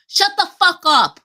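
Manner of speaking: high, loud snapping yell at the dog; high, loud angry yell at a barking dog; yelled shut up. Retold or imitated. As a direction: bark it at the dog, fed up. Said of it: "I say".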